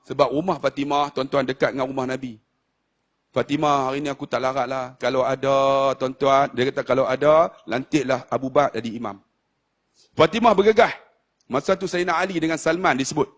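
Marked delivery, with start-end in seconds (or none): 3.3-9.2 weak dying Prophet. Acted. Dying Prophet asking Fatimah to appoint Abu Bakar, weak.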